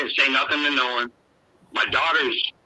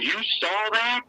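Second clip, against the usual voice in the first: high, slow astonished question; amazed question; 12 semitones higher, slower than usual. Retold or imitated. Answering the grandson who saw the shadow, higher and slower in amazement. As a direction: ask it like you can't believe it.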